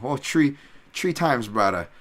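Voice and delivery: Hawaiian pidgin lilt on "three times"; Hawaiian pidgin accent. Shown as a demonstration. Islander showing how home says three, Hawaiian pidgin accent. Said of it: "with our weird accents, we pronounce three".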